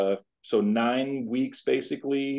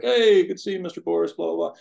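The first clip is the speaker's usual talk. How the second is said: lightly voiced higher-pitched greeter; imitated cheery doctor; 8 semitones higher, 4 dB louder than usual. Doctor greeting his patient at the appointment, cheery. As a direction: breeze through a doctor's hello, pitched up.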